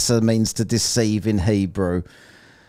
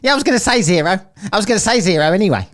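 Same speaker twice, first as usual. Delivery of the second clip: mocking voice; 9 semitones higher, 5 dB louder, much faster than usual. Mocking the opponent's answer.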